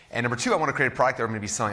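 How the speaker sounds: fast, breathless from running around; out of breath. Real, not acted. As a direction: rush the words, short of air. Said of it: "I'm out of breath".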